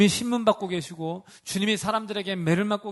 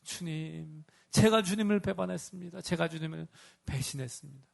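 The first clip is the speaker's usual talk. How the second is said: tearful confession; 3 dB quieter than usual. Acted. Peter's weeping confession.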